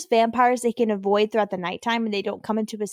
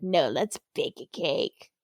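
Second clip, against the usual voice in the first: lower, slow and dull; low slow zombie voice; 8 semitones lower, 6 dB quieter, slower than usual. Retold or imitated. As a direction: drag it out like a zombie. Voicing a zombie's odd reply.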